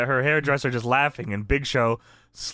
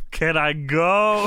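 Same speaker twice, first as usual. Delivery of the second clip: mock pleading; slower than usual. Wrestler begging to be let go, mock pleading. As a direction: beg in a put-on drawn-out plea. Voices Big Show's pleading.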